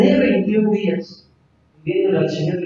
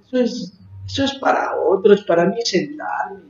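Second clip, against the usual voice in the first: imitating reluctant believers. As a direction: mimic a comfortable, uncommitted churchgoer. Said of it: "los veo así como diciendo". (imitando a un creyente desganado)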